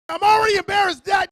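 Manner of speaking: put-on shrill embarrassed kid squeal; high squeaky whine. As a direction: squeak it out, mortified. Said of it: "I'm like".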